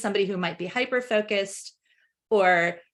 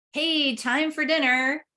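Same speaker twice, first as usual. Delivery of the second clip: calling upstairs; 6 semitones higher, slower than usual. Retold or imitated. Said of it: "yell upstairs to a group".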